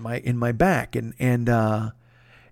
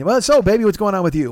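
lightly imitated buddy, higher and louder opening; Jeff; 5 semitones higher, 4 dB louder than usual. Buddy asking after him on a trip, lightly imitated, higher opening. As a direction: burst in with a mock check-in. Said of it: "the way it works with Jeff".

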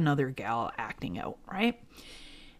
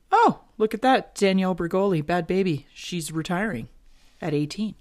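retold casual remark; 3 semitones higher, 5 dB louder than usual. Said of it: "I just casually say".

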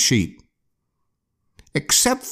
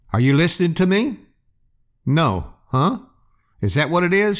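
higher, fast challenging shout; 4 semitones higher, faster than usual. Acted. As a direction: fire questions at the shadow. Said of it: "shouted Warren".

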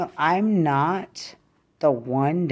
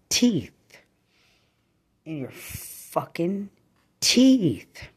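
furious yell; 3 semitones higher than usual. Real, not acted. Threatening the person who hurt her daughter, yelling. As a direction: scream the threat on teeth.

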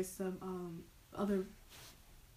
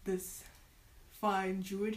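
damp muffled mushroom voice; 6 dB louder, much slower than usual. Acted. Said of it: "says the mushroom person".

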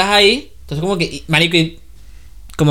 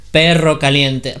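slow careful; 2 semitones lower, slower than usual. Shown as a demonstration. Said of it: "¿Cómo lo decía?".

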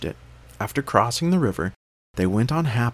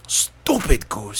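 scornful witch; 3 semitones higher, 3 dB louder, much slower than usual. A narrator's reading. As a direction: sneer it like a witch. Witch scolds.

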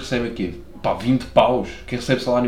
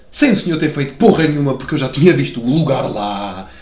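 mock-aggrieved complaint, pushed louder; indignant protest; 5 dB louder than usual. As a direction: protest loudly to the parking attendant. Acted protest to the parking attendant.

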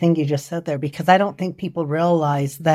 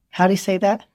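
put-on Southern accent. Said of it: "With his thick Southern accent".

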